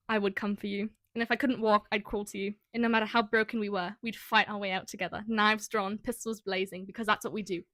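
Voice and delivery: put-on amateur British accent for a quote; British-accented dramatic quote reading. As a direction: read the line in a light British accent. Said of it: "don't say it in a British accent".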